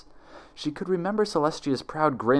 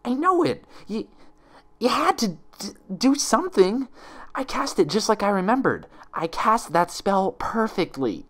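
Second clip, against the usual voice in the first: wavering shout; 11 semitones higher than usual. Acted. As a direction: insist while confidence cracks. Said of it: "confidence wavering".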